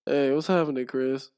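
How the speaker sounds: flat, low-energy greeting. Retold or imitated. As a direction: mumble it with no energy. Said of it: "with low, low ass energy".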